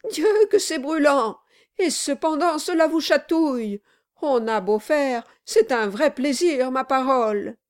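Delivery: high, strained mock delight; laughing protest. A narrator's reading. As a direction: gasp praise of the burning drink. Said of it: "dit en riant monsieur Brass".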